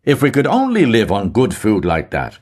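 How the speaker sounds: somewhat loud. A narrator's reading. Mulligan speaking loudly to the old milkwoman. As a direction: speak up for the old woman to hear. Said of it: "he said to her somewhat loudly".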